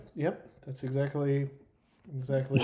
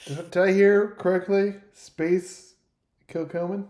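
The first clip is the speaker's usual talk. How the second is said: higher, incredulous questioning; acted surprised gambler; 5 semitones higher, 6 dB louder than usual. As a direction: check you really heard that right. Game master voices gambler's surprised question.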